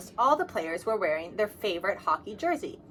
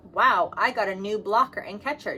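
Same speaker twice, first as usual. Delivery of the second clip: yelling; 5 dB louder than usual. Acted. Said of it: "James yelled".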